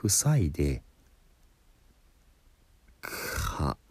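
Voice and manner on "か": ka as a voiceless, breathy burst from the closed back of the throat; demo syllable ka. Shown as a demonstration. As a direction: release the throat closure to make か. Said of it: "喉の奥をね、塞いで".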